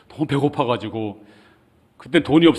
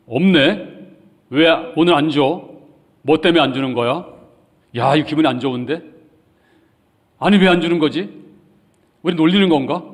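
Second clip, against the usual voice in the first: raised, louder puzzled grumbling; grumbling complaint; 4 semitones higher, 4 dB louder than usual. Retold or imitated. People grumbling that the free gift stopped, raised and annoyed. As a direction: act out the people's irritated complaint.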